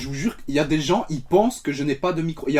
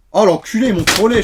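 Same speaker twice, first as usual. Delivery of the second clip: mock outrage; 5 semitones higher, 7 dB louder than usual. Real, not acted. Trophy box has foam.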